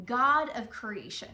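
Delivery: GOD of creation spoken with natural feeling; natural emphasis. Shown as a demonstration. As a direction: stress GOD, let creation fall away. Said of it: "what words do you kind of naturally emphasize".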